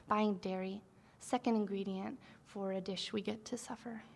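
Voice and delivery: measured delivery with pauses between phrases; poetry reading. Acted. Poet reads to a live audience, poetry reading. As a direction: read the poem line by line, letting each image land. Reads own poem aloud.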